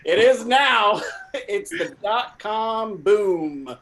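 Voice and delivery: bossy scolding voice; scolding boss. Acted. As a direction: chew out the late employee. Plays angry boss.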